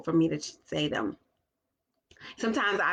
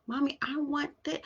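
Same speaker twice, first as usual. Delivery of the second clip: put-on child voice; 7 semitones higher, 4 dB quieter than usual. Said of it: "she kept on saying".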